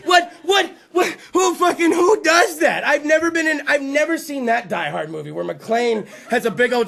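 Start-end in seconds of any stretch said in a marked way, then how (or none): 0.1-2.9 indignant disbelief. Real, not acted. Indignant outburst.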